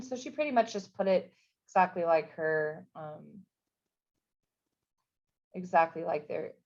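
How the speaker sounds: stumbling over words; can't get the words out; tongue-tied. Real, not acted. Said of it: "I can't even talk right now".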